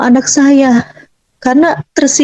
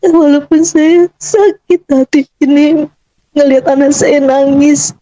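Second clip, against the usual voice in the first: tearful; 3 semitones higher than usual. Real, not acted. Mother recalling her child crying, tearful. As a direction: speak through real heartache.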